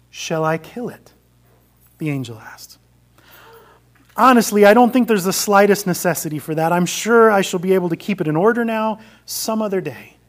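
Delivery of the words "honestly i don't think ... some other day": loud, quick, nervous excuses; anxious pleading ghost. Acted. Ghost pleading with the angel to spare the lizard, loud and nervous. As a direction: talk fast to keep the angel off.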